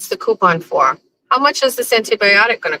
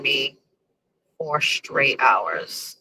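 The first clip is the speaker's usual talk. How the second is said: slow, drawn out; 4 semitones lower, 7 dB quieter, much slower than usual. Real, not acted. Complaining about long wait.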